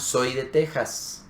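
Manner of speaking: "Soy de Texas" slowed right down, sounds spelled out; imitated learner pronunciation. Teacher replaying the clip's error, slow careful imitation. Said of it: "Pero ahora está diciendo".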